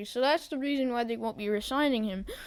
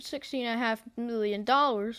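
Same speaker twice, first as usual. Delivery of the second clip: voice crack. Real, not acted. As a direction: voice cracking on the numbers.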